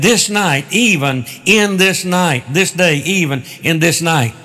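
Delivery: slow, weighted stress on "this night"; emphatic. Retold or imitated. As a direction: press each "this night" slowly and deliberately. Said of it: "it's in the emphatic voice".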